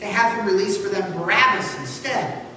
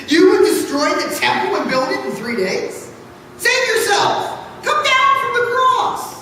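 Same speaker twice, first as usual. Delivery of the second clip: jeering mockery; 9 semitones higher than usual. Passersby taunt the crucified man, a high laughing jeer. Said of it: "derided him, wagging their heads".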